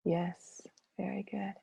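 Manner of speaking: whisper. Real, not acted. Soft approving aside.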